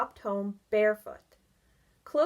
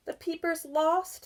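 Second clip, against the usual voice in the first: sadly; 8 semitones higher, 4 dB louder than usual. Acted. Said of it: "said Barry sadly".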